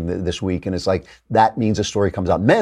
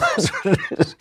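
a short high burst of laughter; 10 semitones higher than usual. Real, not acted. Laughing at own joke.

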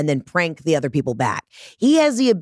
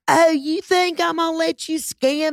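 high put-on voice of an affronted customer; hammed-up high-pitched indignation; indignant white women; 11 semitones higher than usual. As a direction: mimic outraged women refusing to be scammed. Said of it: "all these white women are like".

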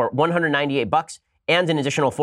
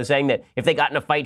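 ordinary talk, nothing marked

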